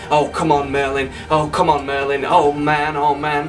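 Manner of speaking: mildly acted pleading; a touch of desperate urgency; begging. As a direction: plead with someone to wake up. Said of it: "begs him".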